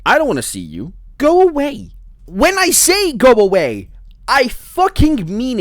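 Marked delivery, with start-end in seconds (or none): 1.2-5.6 high, loud go away; screaming at the monster to back off; furious shout. Real, not acted. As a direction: yell it right in its face.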